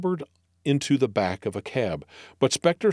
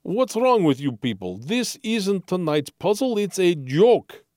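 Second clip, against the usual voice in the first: slowing, exasperated punchline explanation; 7 semitones higher than usual. Acted. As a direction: spell out that it's just a joke. Arkavian exasperated.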